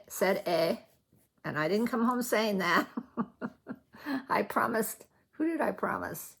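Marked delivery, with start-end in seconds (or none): 0.5-0.8 "a" said as the Canadian tag "eh". Retold or imitated. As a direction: say "a" as a long "ay". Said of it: "some of them say".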